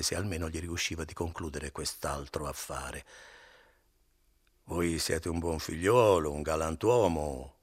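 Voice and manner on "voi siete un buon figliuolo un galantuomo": slow, louder, buttering him up; coaxing flattery. Acted. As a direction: flatter him to get paid. Innkeeper flatters before Renzo echoes.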